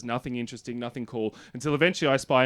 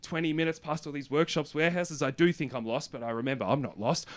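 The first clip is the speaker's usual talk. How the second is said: softer, understated retracing of directions; subdued; 2 semitones higher, 5 dB quieter than usual. Retold or imitated. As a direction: recite it quietly to yourself. Retracing the route, reassuring himself.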